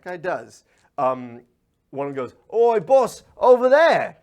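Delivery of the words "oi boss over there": loud, high call across a room; big rough-and-ready yell; henchman's shout. Acted. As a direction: holler to get the boss's attention. Henchman calls out to boss.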